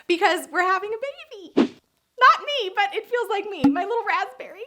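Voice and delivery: high, gushing with joy; excited. Real, not acted. Sharing her sister's baby news, high and gushing. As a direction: squeal it out like the happiest aunt.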